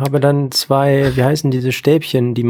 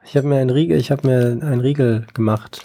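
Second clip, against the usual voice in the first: chewing while talking. Real, not acted. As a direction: mouth full of snack bar. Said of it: "ich esse gerade".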